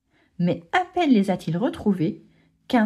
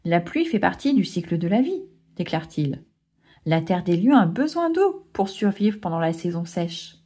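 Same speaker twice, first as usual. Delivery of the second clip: tender grandfather; 2 semitones lower than usual. Acted. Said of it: "sourit tendrement".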